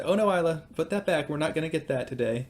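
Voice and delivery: put-on gently head off a child's grab; retold parental no. Dad stopping daughter at the chip aisle, mild retold refusal.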